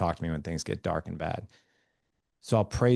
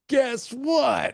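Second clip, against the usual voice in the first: put-on high, loud, eager child voice; excited kid; 4 dB louder than usual. Kid bursting through the door with news, high eager child voice. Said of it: "they'll be like".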